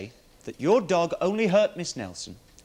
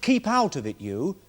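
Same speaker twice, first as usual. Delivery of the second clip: quoted retort; 3 semitones higher than usual. Retold or imitated. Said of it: "He said".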